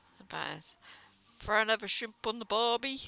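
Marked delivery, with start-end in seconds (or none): 1.4-3.1 put-on Aussie accent; Australian accent. Shown as a demonstration. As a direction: do your best stock Australian accent. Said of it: "about as Australian as I could get".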